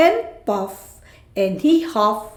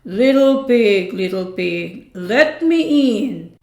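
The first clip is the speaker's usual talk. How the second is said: wolf bellow. Acted. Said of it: "bellowed the wolf".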